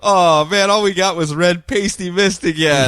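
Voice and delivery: hammed-up frustrated villain; wild unhinged ranting. Voicing villain disappointed.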